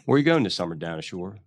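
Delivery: light working-class Philly accent, quick back-and-forth; a Philly guy chatting about Wawa and hoagies, mild Philly accent. Shown as a demonstration. Host asks for it, he plays a casual Philly exchange in Philly accent. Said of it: "What's the Philly accent?".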